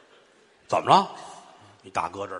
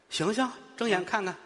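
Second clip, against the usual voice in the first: put-on 1 calling old man; 7 semitones higher, 5 dB quieter than usual. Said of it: "老爷子".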